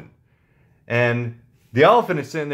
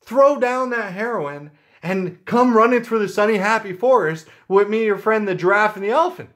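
much higher, eager bunny squeak; 6 semitones higher than usual. Acted. The bunny begs the lion to drop the heroin, squeaky high. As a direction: pitch it way up like a hopping bunny. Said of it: "the bunny is like".

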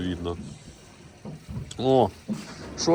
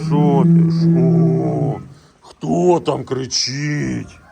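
louder, higher, slow call; raised playful call across the barn; loud high call to a bull; 6 semitones higher, 9 dB louder, much slower than usual. Real, not acted. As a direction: call out over the animal noise. Answering a shouting bull.

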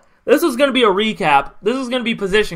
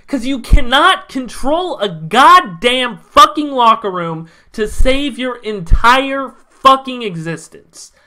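angry rant; 2 semitones higher, 3 dB louder, slower than usual. Real, not acted. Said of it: "I had to rant".

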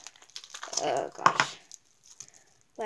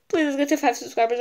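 quick, laughing plea, a bit louder; 5 dB louder, faster than usual. Real, not acted. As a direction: rush it out with a laugh. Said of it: "I'm about to cry".

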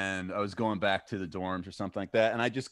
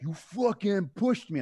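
mock angry accusation; 8 semitones higher, slower than usual. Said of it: "he is like".

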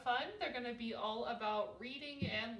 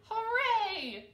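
high, loud hurrah; excited cheer; 10 semitones higher, 9 dB louder than usual. A narrator's reading. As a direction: cheer like delighted little chicks. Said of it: "they cried".

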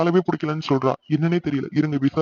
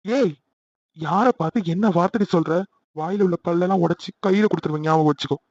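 angry threat. Acted. Boyfriend threatens insulted girlfriend.

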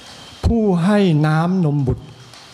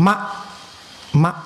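put-on Muslim baby saying mother; 2 semitones higher, much slower than usual. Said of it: "ก็เรียกว่า".

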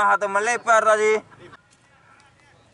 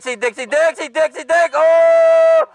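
name calls building up; rising excitement; 6 semitones higher than usual. Real, not acted. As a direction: build to a shout. Building attack.

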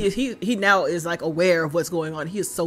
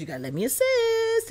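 pleading in a much higher, squeaky voice; a mock beg, pitched way up; squeaky mock plea. Retelling a pleading character's line.

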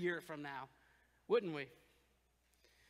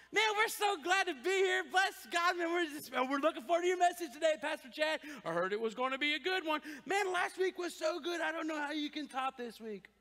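fake cheerful flattery; 3 semitones higher than usual. Faking nice to the pastor.

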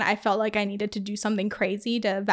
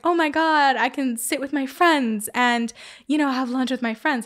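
put-on mildly excited kids, higher at the start; happy mock shouting; 3 semitones higher than usual. Kids thrilled about lunch with friends, happy mock shouting. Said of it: "happy and shouting".

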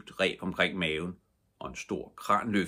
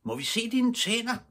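put-on children shouting. A narrator's reading. Kids on the quay shouting to the red-bearded father. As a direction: call out eagerly like a crowd of kids. Begyndte de alle sammen at råbe.

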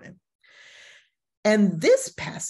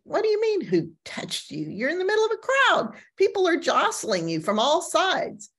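incredulous; 10 semitones higher than usual. Acted. Disciples answer Jesus incredulously.

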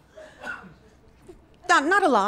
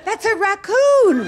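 much higher and louder, slow, with a laugh; incredulous punchline; 9 semitones higher, 8 dB louder, slower than usual. Retold or imitated. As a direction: land the reveal big and disbelieving. Punchline reveal from owner.

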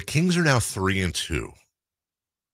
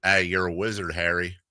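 put-on low-key, failed country accent; softer, half-hearted stab at country; bad country accent; 3 semitones lower, 4 dB quieter than usual. Radio host tries a Harry Potter line, weak country accent. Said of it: "that's not a good country accent".

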